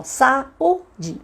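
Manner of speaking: "saúde" broken into sa, ú, de with gaps; syllable by syllable. Shown as a demonstration. Teacher showing parents how a word splits, syllable by syllable. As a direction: say "saúde" one syllable at a time. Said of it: "Como a palavra assim".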